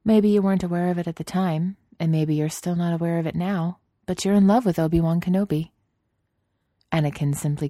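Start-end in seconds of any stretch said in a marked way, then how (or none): 0.0-5.7 Padme's voice. Acted.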